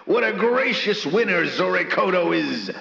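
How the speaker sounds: excited radio-host shout-out; hyped announcer. Acted. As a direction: proclaim the winner with showman's flourish. Announces a viewer's gift.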